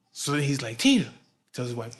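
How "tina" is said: loud, high retold call. Father calling his wife for help, calling out. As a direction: holler a name to summon someone.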